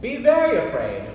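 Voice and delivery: mock spooky warning. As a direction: ham up a horror-movie threat. Playful spooky echo.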